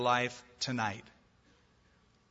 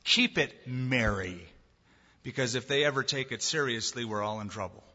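growling Satan; 3 semitones lower than usual. Acted. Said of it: "Satan growled back to him".

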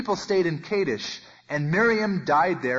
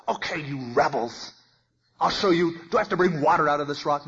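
exasperated, scolding the rebels; fed-up leader snapping at the crowd; complaining Moses. Retold or imitated. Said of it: "Now Moses complains".

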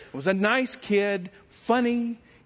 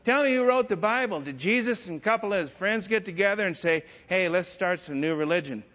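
Lane Flynn; 2 semitones higher than usual. Retold or imitated. Construction worker ribbing a believer about the Bible, mocking voice. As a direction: taunt him as the big-mouthed skeptic. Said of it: "This is his voice".

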